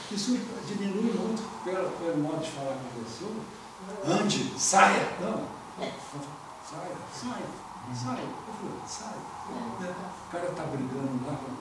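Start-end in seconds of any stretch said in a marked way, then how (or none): 4.1-5.1 loud, brusque order; imperative tone. Shown as a demonstration. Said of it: "É o tom de voz". 5.8-9.2 softened tone. Shown as a demonstration. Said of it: "É o tom de voz".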